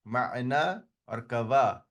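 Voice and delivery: "ma'na or kawa" said slowly with falling ends; careful teacher's model of "ma'na" and "kawa"; slow demo words. Shown as a demonstration. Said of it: "For example".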